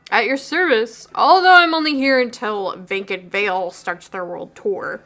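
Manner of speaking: slow, put-on band-guy voice; another new voice. Barista brags about his band's tour, slow and put-on. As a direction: drag it out like a would-be rock star. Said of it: "His voice keeps changing".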